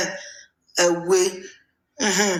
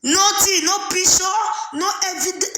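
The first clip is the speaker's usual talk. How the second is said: higher voice, laughter breaking through the list; laughing disbelief; 5 semitones higher than usual. Real, not acted. Host mocks his friend's story having no evidence, laughing disbelief.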